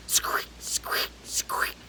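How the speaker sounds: soft whispered squeaks; storyteller making the stone's squeak sound. Acted. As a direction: breathe the squeak like a wet apron. Squeezing sound again.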